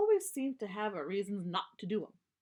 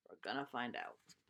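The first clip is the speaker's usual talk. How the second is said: hushed, teasing whisper; spooky whisper; 8 semitones lower, 7 dB quieter than usual. Acted. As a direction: whisper it like a secret. Teasing whisper before the story.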